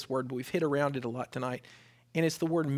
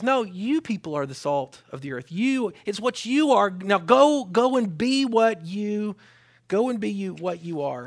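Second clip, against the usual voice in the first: commissioning; 6 semitones higher, 8 dB louder than usual. Acted. Jesus commissioning, loud, slow.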